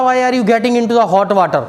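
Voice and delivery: slow, pointed question to a friend; slow acted question. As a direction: ask it slowly and deliberately. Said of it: "जैसे इसने बोला". (सहेली से धीरे-धीरे पूछते हुए)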